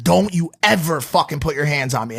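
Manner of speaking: contained mock yell. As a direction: press each word as an imitated angry warning. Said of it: "Like, yelling at him".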